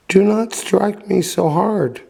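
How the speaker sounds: high, pleading little voice; small imploring voice. A narrator's reading. Wooden log begging the carpenter, high and pleading. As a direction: beg not to be struck, high and small. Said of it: "a very small voice saying imploringly".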